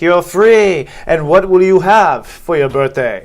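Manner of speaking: booming voice from the sky; big loud voice proclaiming from above; God voice. Pretend. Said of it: "That's my God voice".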